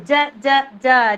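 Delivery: punchy repeated j sound; phonics sound repeat. Shown as a demonstration. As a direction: drill the j sound. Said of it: "phonics sound demo".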